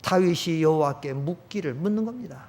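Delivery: normal talking voice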